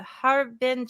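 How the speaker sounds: "Harbin" said slowly, unsure of the Mandarin tones; careful, hesitant learner's "Harbin"; foreigner speaking mandarin. Real, not acted. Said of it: "Sorry, my Chinese sucks".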